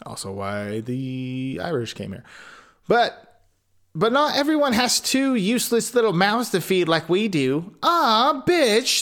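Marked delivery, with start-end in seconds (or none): 3.9-7.7 stepmother. A narrator's reading. Stepmother voiced in story. 7.8-9.0 high, scornful angry outburst; angry stepmother. A narrator's reading. Stepmother cursing about the children, angry and higher. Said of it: "the stepmother said angrily".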